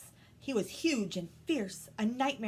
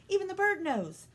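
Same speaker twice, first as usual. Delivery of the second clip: put-on crabby old aunt; 11 semitones higher, 5 dB louder than usual. Rani's aunt gloats.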